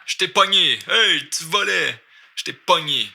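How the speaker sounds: high, playful call-out; lively acted "gotcha" exclamation; acted catching someone. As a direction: pounce on the thief with mock accusation. Acts catching a candy thief.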